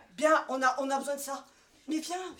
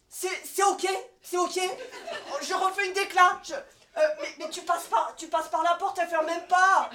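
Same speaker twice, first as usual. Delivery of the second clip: frazzled manager; 4 dB louder than usual. Acted. Frazzled boss on phone sketch.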